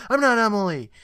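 high, loud acted denial; mock protest.

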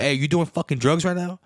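low-key yelling. Retold or imitated. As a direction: scold him half-shouting. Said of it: "I'm low-key yelling at him".

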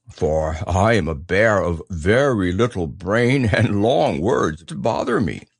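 simple, earnest bear voice; Pooh, humble bear. Acted. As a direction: confess it as a humble little bear.

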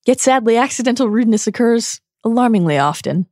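a hint of politely cutting character voice; courteous put-down, starting high and easing down; Dumbledore. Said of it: "And then Dumbledore says".

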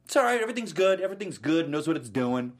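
high, soothing fan voice; dismissive fan voice. Retold or imitated. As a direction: wave off the worry like a fan. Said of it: "everyone's like".

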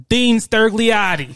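slow announcer reading a name; campaign ad voice. Pretend. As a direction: sell the name slowly. Mock campaign ad voice.

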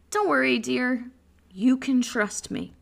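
mock-calm, unbothered reassurance; easy, level husbandly assurance; reassuring husband. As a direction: soothe her as if nothing is wrong. Acts husband reassuring panicked wife.

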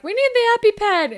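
mock urgent shout; urgent order. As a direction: demand it in alarm. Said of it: "And then Dallas is like".

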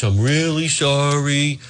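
mock pleading for favors; mock groveling. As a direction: beg like a beaten man, lightly voiced. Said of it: "he's groveling at folks".

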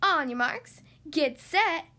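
loud, rising starting call; eager quacked countdown; race starter's call. A narrator's reading. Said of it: "Thistle quacked".

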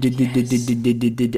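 rapid-fire string of D sounds; playful d-d-d sound; repeated D stutter. Acted. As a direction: stutter out a run of Ds as written. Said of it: "'cause I wrote D, like, a bunch of times".

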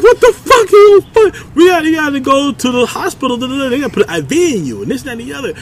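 high mock rant, easing off by the end; imitating yelling doctor. Doctor ordering patient to hospital, mock yelling that fades. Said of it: "the doctor started yelling at me".

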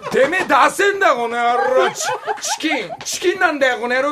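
loud mock thug taunt; hammed-up street punk threat; japanese delinquent tough talk. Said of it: "っていうのはなんかよく聞くじゃん".

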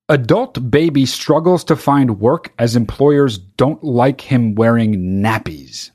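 slow deadpan headline read; flat reading. Shown as a demonstration. Reading the absurd headline to listeners, slowly and flatly. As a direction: read it out flatly, the way it's written. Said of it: "I'm gonna read the article flatly".

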